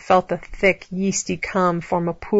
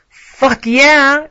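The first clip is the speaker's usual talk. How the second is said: high, loud triumphant shout; full-voiced, drawn-out yell; screamed exclamation; 7 semitones higher, 7 dB louder than usual. A narrator's reading. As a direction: shout it out, voice leaping up. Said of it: "Alex screamed".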